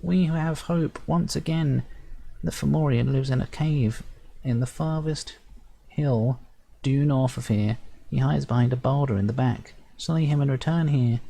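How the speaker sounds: a tiny chief giving solemn directions; hopeful sprite chief. Acted. Sprite chief telling the hero where the Fomorian hides, high and solemn.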